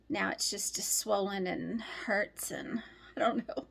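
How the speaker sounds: whispered, slow. Real, not acted. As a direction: breathe it out in a whisper. Complaining about her sore lip.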